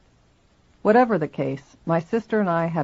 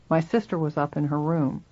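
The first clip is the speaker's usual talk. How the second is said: ordinary delivery, nothing marked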